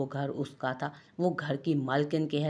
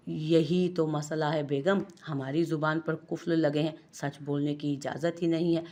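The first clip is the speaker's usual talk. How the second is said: mischievous innocence. Acted. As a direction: play innocent while needling her. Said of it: "शरारत से ... मासूमियत से बोला".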